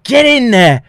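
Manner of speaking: high, loud shouted command; officer yelling at him to get in the corner; retold police order. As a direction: bark it like a cop shoving someone. Cop shoving him into corner.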